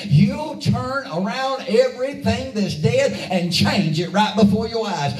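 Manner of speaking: driving, rhythmic sermon run; emphatic pulpit cadence; impassioned preaching. Real, not acted. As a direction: preach it in one sustained, building run.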